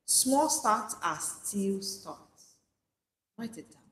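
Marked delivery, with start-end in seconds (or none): 0.1-2.6 each word set apart, very slow; slow emphatic mantra. Shown as a demonstration. Preacher to listeners, a slow mantra to repeat. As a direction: say it slowly so it sticks. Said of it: "I want you to say this to yourself".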